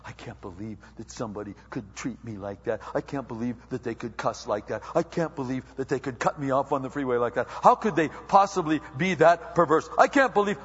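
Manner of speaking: hammed-up offence that rises with each complaint; uppity indignation. Christian offended by cussing and bad drivers, mock uppity indignation. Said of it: "this little uppity kind of".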